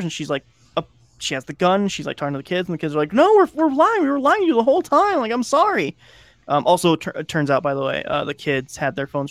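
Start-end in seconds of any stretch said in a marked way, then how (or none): 3.1-6.0 much higher, louder, rushed pleading; panicked confession. Retold or imitated. Kids confessing to the stepmother, high panicked pleading. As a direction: kids blurting out an apology in a panic.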